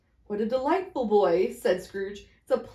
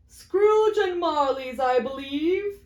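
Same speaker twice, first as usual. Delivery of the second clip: slow, measured gentleman's voice; portly gentleman; 6 semitones higher, 4 dB louder, slower than usual. Acted. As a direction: weigh each word politely.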